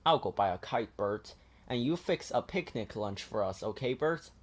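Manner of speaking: a hint of Bert. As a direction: drop low for a fussy Bert. Bert's voice in story.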